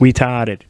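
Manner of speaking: "Retarded" as "retahded", no R; Boston "Retarded", R dropped. Shown as a demonstration. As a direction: swallow the R in "Retarded". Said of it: "There's no R in there".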